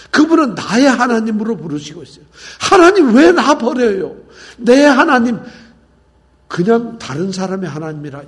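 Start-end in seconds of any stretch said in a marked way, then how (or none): 2.6-5.4 much higher and louder, slow wail; anguished cry. Retold or imitated. Preacher voicing Jesus crying from the cross, high loud wail. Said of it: "심한 통곡과 눈물로 십자가에서 울부짖고".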